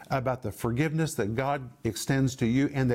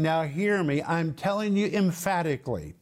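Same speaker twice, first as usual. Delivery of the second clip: insistent, a touch higher; raised emphatic voice; 4 semitones higher than usual. Acted. Paul demanding to be heard, emphatic. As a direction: press each point emphatically. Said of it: "It's like he's raising his voice".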